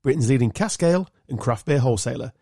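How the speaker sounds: measured podcast ad read; sponsor read. Acted. Host announcing the show's sponsor to listeners, sponsor read. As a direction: read out the sponsor credit cleanly.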